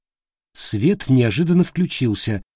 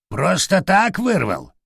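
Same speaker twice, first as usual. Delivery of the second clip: slow, higher creaky parrot question; 7 semitones higher, slower than usual. Acted. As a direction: creak it out suspiciously like an old bird. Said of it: "скрипучим голосом осведомилась птица". (скрипучий голос попугая)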